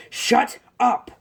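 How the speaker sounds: high, loud acted shout; upset outburst. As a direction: blow up at them. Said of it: "Bakugo is getting upset".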